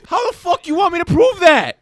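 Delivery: high-pitched angry disbelief; exasperated retort. Real, not acted. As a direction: throw the demand back, riled up. Challenged to prove he is real.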